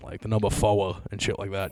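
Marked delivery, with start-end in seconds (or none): 0.5-1.0 Boston "four" with the R dropped; Kennedy-style Boston accent. Shown as a demonstration. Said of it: "in that Kennedy accent".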